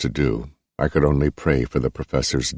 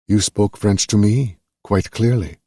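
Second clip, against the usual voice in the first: officer's voice; 6 semitones higher than usual. A narrator's reading. Officer accuses the prisoner.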